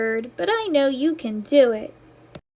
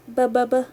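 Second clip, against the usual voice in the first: fish bubble sounds; 3 semitones lower, faster than usual. Shown as a demonstration. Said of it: "Like the fish".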